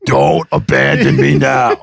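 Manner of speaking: deep, slow pleading imitation; Brian Half. Friend begs him to come in, deep impression. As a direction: plead in the buddy's low, drawn-out voice. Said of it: "he talks like this".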